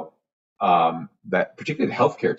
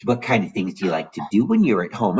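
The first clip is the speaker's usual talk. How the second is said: put-on mild baby talk. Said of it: "sit in front of a patient's bed and like".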